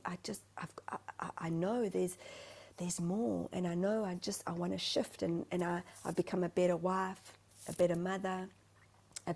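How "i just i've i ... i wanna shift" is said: soft whispered plea; whispered longing. Retold or imitated. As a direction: breathe it out quietly. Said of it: "I kept saying".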